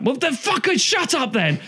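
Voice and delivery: high, scornful put-on voice; a hint of a smug gatekeeper; mock dismissive retort. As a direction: shut them down like a snobby fan. Acted exchange with a metal fan.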